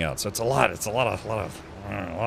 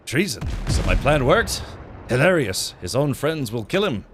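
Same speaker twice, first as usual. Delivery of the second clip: fake French accent. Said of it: "work on my fake French accent".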